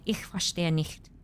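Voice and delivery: German phrase. Retold or imitated. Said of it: "I'm like".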